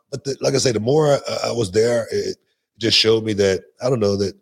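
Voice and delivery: usual speaking voice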